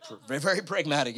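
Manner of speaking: quick, laughing aside. Real, not acted. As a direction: laugh through the words. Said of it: "laughs at own joke".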